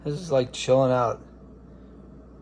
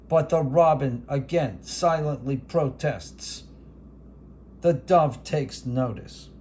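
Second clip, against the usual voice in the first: Howard Cosell. Acted. Announcing the robin and dove rivalry as a hammed sportscaster. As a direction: build the bird standoff like a title bout. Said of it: "This is Howard Cosell".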